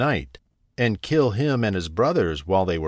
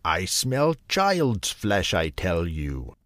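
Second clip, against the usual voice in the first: slow, menacing ogre voice; drawn-out greedy monster; dim slow booming giant; slower than usual. A narrator's reading. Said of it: "cried the ogre".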